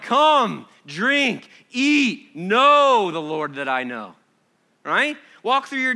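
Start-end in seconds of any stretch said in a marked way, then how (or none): 0.0-4.2 bright joyful invitation. Acted.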